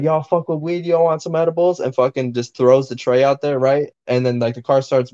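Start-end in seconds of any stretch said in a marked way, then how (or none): 0.0-1.8 imitating the rapper. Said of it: "He's like".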